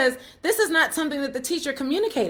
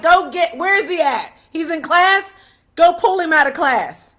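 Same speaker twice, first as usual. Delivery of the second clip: louder, insistent orders; indignant demand; 3 semitones higher, 6 dB louder than usual. Retold or imitated. Mother ordering staff to fetch her son, indignant and louder. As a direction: demand it, fed up and firm.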